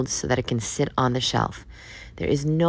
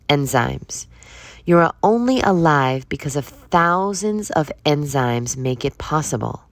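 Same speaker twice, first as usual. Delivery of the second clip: reading a book aloud. Acted. Podcaster quoting an enzyme book to listeners, emphatic reading. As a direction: read the passage out with measured emphasis.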